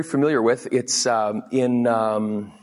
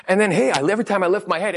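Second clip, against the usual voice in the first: ordinary delivery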